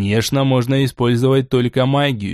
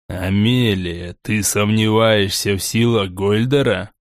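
smirking; 4 semitones lower than usual. Acted. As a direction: ask it low with a smirk. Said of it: "С усмешкой обратился он".

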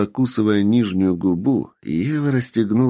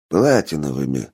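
sarcastic; 6 semitones lower than usual. Acted. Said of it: "съязвил пожилой мужчина".

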